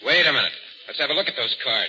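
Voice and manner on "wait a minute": dawning realization. Acted. Sudden realization, repeated more firmly.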